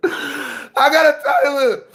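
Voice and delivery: slow, tearful stammering; mock tearful. Fan mourning the trade, slow mock-tearful voice. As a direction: try to get it out through hammed-up tears. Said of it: "am not crying".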